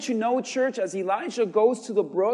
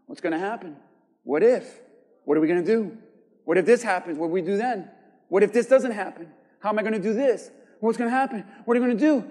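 imitating a worrier; faster than usual. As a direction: mutter worries under your breath, nervous. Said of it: "This is how you talk".

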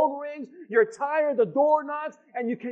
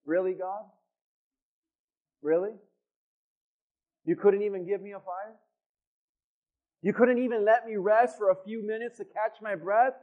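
exasperated Paul; 4 semitones lower than usual. Retold or imitated. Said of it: "Paul's probably thinking".

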